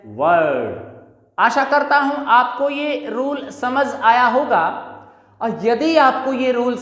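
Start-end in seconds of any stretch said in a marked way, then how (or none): 0.0-0.8 "word" with no R sound; silent R. Shown as a demonstration. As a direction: drop the R in "word". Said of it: "it will be pronounced as". ("word" में R silent)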